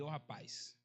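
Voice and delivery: very low, soft reprimand; hushed scolding. Retold or imitated. Preacher imitates pastor correcting his son, speaking very softly and low. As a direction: keep it down low while telling the child off. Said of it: "fale baixinho com ele".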